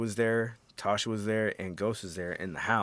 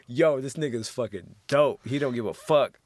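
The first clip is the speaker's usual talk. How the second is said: excited; 3 semitones higher, 4 dB louder than usual. Retold or imitated. Excited reaction to scene.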